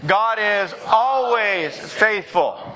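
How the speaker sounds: "always" pitched high and drawn out; slow emphatic call, stretching "always" for the congregation; stress on ALWAYS. Shown as a demonstration. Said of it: "you gotta emphasize the always".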